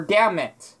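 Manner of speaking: "Damn it" without the N; silent N. Shown as a demonstration. Showing the N is silent in damn it. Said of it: "the N wouldn't be there".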